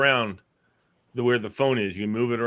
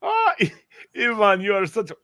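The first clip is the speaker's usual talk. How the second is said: gushing friend voice; 10 semitones higher, 4 dB louder than usual. Retold or imitated. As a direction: fawn over him like a party host. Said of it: "I'll say".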